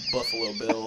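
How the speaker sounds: sudden very high squeal; squealed name. Acted. Mocking the character name.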